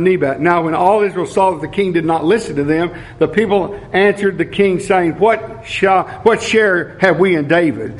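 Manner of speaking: measured Bible reading, slowed on key lines; scripture reading. Acted. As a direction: read the passage to the church. Reads scripture aloud.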